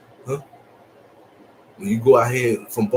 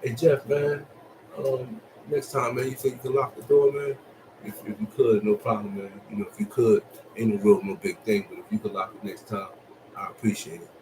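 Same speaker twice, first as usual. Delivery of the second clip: polite ask. Retold or imitated. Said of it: "It's all about the way you say it".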